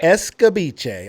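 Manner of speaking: slow, careful "Escabeche" sounded out as es-ca-bee-chay; drawn-out "Escabeche" with each syllable spaced. Shown as a demonstration. Host slowly tries the dish name, careful and drawn out. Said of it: "there's never been a reason for me to say escabeche".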